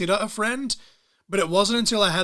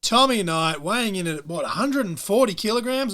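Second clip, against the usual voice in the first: announcer voice; 3 semitones higher, 4 dB louder than usual. Pretend. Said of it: "ring announcer voice".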